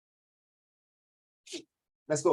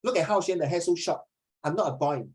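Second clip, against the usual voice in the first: imitating a girl student; 2 semitones higher than usual. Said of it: "So Luo Lei say".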